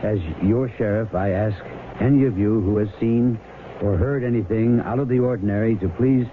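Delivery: formal public appeal on the air; measured official broadcast voice; radio appeal. Acted. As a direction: address the townsfolk like a sheriff on radio.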